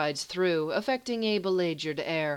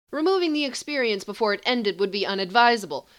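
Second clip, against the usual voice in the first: calm; 5 semitones higher, 5 dB louder, faster than usual. Acted. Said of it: "Jakim says calmly".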